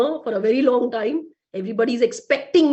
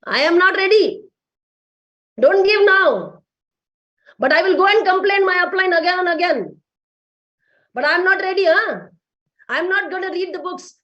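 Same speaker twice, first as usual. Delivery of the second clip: mock Indian accent; 7 semitones higher, 5 dB louder than usual. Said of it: "With the same accent".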